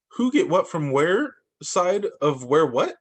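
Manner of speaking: slow, puzzled question; confused bunny. Acted. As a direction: stumble through it, baffled. Buddy confused by instructions.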